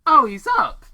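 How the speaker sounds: sudden high, loud gasp of words; startled. A narrator's reading. Paige startled as the alien wakes, shocked cry. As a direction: blurt it out in shock.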